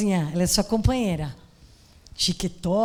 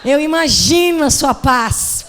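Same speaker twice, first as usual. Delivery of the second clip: louder, drawn-out "imagino" with wry irony; ironic envy; 8 dB louder than usual. Retold or imitated. Scared pastor answers the calm woman with wry, drawn-out irony. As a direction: say it kindly but envying her peace. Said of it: "Que eu não tava, né?".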